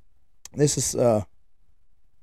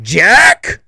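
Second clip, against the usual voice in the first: louder, higher sharp shout of the name; sharp yell; 6 semitones higher, 8 dB louder than usual. Retold or imitated. Dad kicked in the jaw by his son, sharp shout. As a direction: yell the kid's name in shock.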